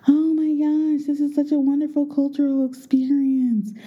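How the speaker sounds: high gushing delight; gushing family. Retold or imitated. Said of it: "my family is saying".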